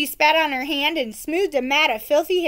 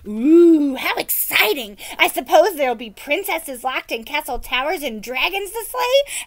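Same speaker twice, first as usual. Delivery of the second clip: excited peasant woman; 3 semitones higher, 5 dB louder than usual. Acted.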